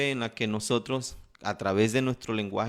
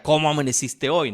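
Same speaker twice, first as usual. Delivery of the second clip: different tone; 3 semitones higher, 4 dB louder than usual. Shown as a demonstration. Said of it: "pero era de otra manera".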